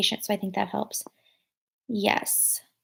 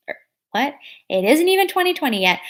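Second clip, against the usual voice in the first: amused, surprised by her own slip; surprised laugh; 6 semitones higher, 4 dB louder than usual. Real, not acted. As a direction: laugh at your own mistake, higher. Catches her own wrong year.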